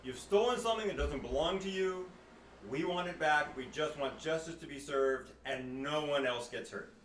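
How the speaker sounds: loud, slow, firm demand; loud proclamation. Acted. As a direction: call it out to the crowd, slow and commanding. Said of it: "I'll say loudly to the ones in the net".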